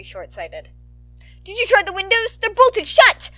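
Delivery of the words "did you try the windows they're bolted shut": high, loud frantic exchange; panicked. Acted. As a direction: talk fast, trapped and scared. Trapped board members panicking.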